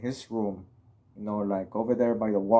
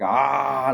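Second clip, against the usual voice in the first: mock scream; 2 semitones higher, 6 dB louder than usual. Shown as a demonstration. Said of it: "like that, like Shrek".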